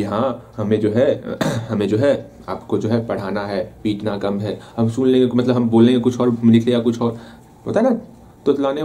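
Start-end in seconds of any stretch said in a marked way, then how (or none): 0.0-4.6 stammering student. Pretend. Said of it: "जैसे मान लो हमको बोलना होगा कि".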